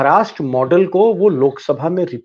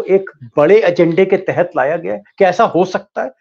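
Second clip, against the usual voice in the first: questions climbing higher and louder; building loud questions; 4 semitones higher, 5 dB louder than usual. Real, not acted. Anchor pressing the panel, rising and louder. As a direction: press harder with each question.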